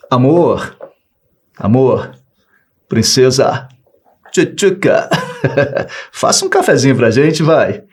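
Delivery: coaxing, sweet-talking a wife into coffee; butter her up with pet names; sweet pleading request. Shown as a demonstration. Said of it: "pelo meu tom de voz, deixou de ser uma ordem. Passou a ser um pedido". (pedido carinhoso e manhoso)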